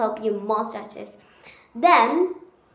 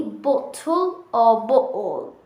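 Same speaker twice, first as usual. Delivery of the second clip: British accent. Shown as a demonstration. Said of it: "the T gets silent".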